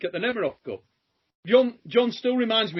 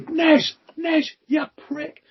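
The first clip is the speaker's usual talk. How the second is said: mock scream; 8 semitones higher, slower than usual. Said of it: "comes screaming down the friggin' aisle".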